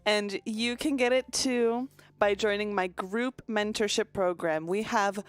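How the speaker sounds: a hint of a scammy life coach thanking a client. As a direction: gush like a mentor selling a program. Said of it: "The way of speaking".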